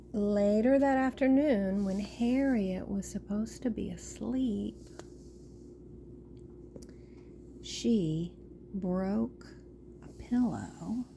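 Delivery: put-on expressive, measured storytelling to children; storyteller with swooping emphasis; picture-book read-aloud. A narrator's reading.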